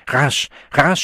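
high, loud urgent shout. A narrator's reading. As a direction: shout to hurry them. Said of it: "schrie Siegmund". (Siegmund schreit die Polizisten an)

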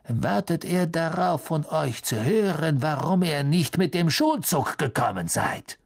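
a touch of cold menace; lightly icy stern teacher. Acted. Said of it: "sagte eine eisige Stimme".

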